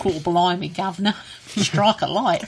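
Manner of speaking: lightly voiced Texan Cockney accent; a hint of a Texan Cockney accent; playful Texan Cockney accent. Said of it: "Texan Cockney".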